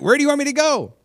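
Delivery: very high, loud retold plea; exasperated mock cry. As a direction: blurt it up to God in mock exasperation. Retold missionary repeats her exasperated plea.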